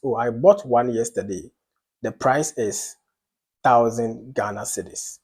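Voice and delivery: no doubt in it, firm and certain; emphatic. Shown as a demonstration. Lecturer demonstrating a statement of fact, emphatic. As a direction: state the price as sure, settled fact. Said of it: "I was very emphatic about one of them".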